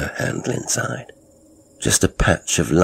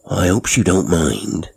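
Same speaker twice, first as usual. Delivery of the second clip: lorry driver voice; 2 semitones higher than usual. Acted. Driver character voice.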